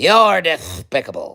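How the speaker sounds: high, loud cartoon duck voice. Running quickly through cartoon voices, next one: Daffy Duck voice. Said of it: "How about Daffy? That's an easy one as well".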